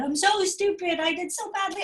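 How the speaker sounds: put-on self-critical kid. Child puts himself down after a bad result, high and loud. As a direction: whine it out like a frustrated child.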